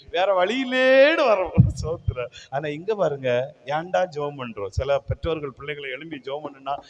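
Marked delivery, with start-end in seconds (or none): 0.1-1.5 high, dragged-out grudging complaint; exaggerated resigned whine; mock reluctance. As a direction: imitate a grudging churchgoer, slowly. Mimics reluctant churchgoers.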